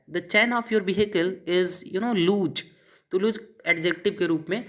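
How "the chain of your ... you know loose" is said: very slow, word by word; slow English translation. Shown as a demonstration. Teacher slowly translating the loose chain example into English. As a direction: dictate the English line slowly. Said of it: "आपकी गाड़ी का चैन ढीला है".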